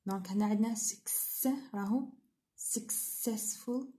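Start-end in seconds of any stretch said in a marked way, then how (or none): 2.6-3.9 "successful" very slow and softer; teacher marking the stressed syllable; slow syllable demo. Shown as a demonstration. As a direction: stretch "successful" with stress on "cess". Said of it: "on the second syllable".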